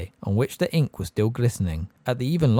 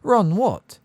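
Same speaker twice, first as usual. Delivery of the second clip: startled; 10 semitones higher, 6 dB louder than usual. A narrator's reading. Startled girl in storybook scene.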